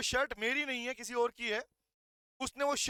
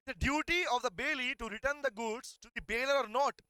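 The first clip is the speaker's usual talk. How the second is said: slow rhetorical question; much slower than usual. Shown as a demonstration. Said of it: "Think ये question पूछो अपने आप से".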